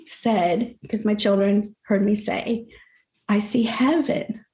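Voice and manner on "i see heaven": slow, drawn-out retold declaration; slow testimony. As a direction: stretch each phrase, as if recounting a vision. Retells own words on glimpsing heaven.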